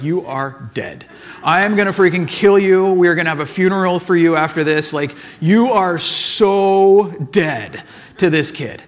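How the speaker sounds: hammed-up revenge on a kid; playful menace, not quite real rage; mock furious threat. Retold threat after paintball hit.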